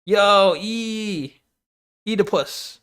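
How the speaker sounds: mock excited shout of Oedipus, slow and stretched. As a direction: imitate hyped people blurting it out. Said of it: "They get excited".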